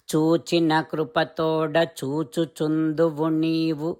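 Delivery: quick, lilting recital of a Telugu verse; verse recitation. Acted. Narrator recites the gopikas' plea to Krishna, chanting. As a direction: roll through the verse in a steady chant.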